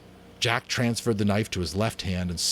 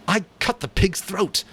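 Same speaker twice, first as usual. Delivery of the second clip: proud; 12 semitones higher, 4 dB louder than usual. Acted. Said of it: "said Jack proudly".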